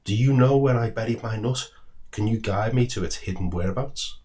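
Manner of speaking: eager squirrel. Acted. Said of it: "the squirrel exclaimed".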